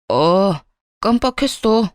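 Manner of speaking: casual, unbothered shrug of a line; offhand calm. Acted. Husband on the phone, breezily forgetting the birthday, unbothered. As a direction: toss it off as if it's nothing. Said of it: "아주 태연한 목소리로".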